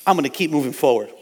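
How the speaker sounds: a resolve that swells into a rally cry; determined declaration building to a shout. Retold or imitated. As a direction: vow it, rising to a shout against the devil. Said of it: "It's like".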